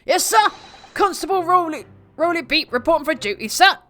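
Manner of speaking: put-on high, bright young officer voice; eager constable. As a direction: snap to attention for the sir. Plays constable character.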